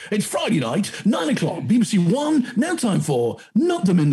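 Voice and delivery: high, bright continuity announcer. Pretend. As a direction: announce the show like the BBC. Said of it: "mock TV announcement".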